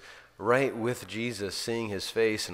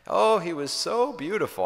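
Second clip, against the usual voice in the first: higher and louder, gushing with awe; rapt old woman; 9 semitones higher, 5 dB louder than usual. Retold or imitated. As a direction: let the wonder burst out on Oh. Mary's usual ending to story.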